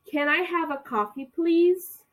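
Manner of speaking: "please?" rising high and loud; rising loud "please?" to prompt repetition; call and repeat. Shown as a demonstration. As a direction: lift "please?" up for students to echo. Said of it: "vocês vão repetir pra mim".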